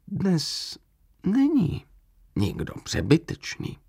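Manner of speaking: unshakably calm reply; calmly. A narrator's reading. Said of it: "řekl klidně". (klidně a tiše)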